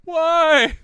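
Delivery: high, loud little spider whine; a spider complaining about the land; voiced spider. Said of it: "The spiders were all like".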